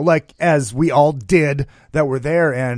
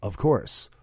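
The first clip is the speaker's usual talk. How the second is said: low, quiet smug answer; low Gene voice; 8 semitones lower, 8 dB quieter than usual. Retold or imitated. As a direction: say it deep and smug. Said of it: "Gene, Gene goes".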